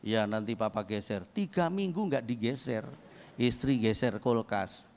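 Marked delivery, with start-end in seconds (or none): 0.1-1.3 a husband who will never get round to it; lazy brush-off. Retold or imitated. Husband brushes off his wife's request, lazy low mumble.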